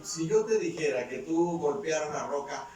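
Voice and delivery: insistent cross-examination in a preacher's retelling; challenging question. Retold or imitated. Preacher voices God challenging Cerulo.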